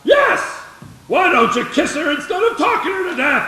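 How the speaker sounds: shouted heckle. Acted. Old neighbour shouts at George from his porch, yelling. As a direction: holler it from the porch.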